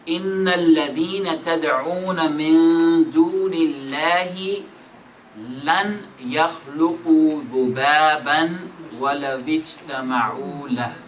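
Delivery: fast, chanted Quranic recitation; rapid melodic tajweed reading. Shown as a demonstration. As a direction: recite the verse in a flowing chant.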